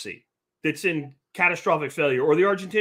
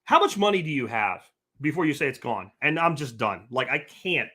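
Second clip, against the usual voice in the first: ordinary delivery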